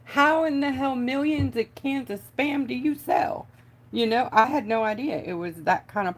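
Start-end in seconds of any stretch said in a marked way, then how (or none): 0.0-3.5 amazed disbelief. Retold or imitated. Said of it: "I was like".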